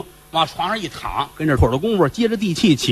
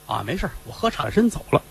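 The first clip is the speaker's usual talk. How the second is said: offhand master; 2 semitones lower, 7 dB quieter than usual. Acted. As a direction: wave him off, unbothered. Fifth Master answers casually.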